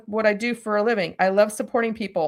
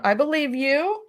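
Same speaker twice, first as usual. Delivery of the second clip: slow, higher, with a rising end; mock placating; 5 semitones higher, slower than usual. Bosses humour the employee, retold as placating. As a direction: humour her in an imitated boss voice.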